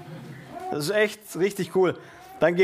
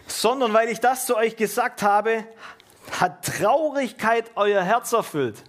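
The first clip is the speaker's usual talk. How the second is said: raised, declaimed Bible reading; scripture reading; 4 semitones higher than usual. Acted. Preacher reading Jesus' warning to his disciples, declaimed. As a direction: read the verse out to the congregation.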